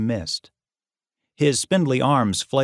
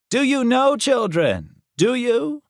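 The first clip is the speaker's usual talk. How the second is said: ranting professor; 14 semitones higher than usual. A narrator's reading. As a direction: preach it at the class. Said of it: "like a lunatic minister preaching judgment".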